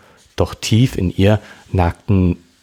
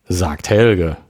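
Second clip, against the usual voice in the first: spöttisch. Acted. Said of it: "spotterte Charlie".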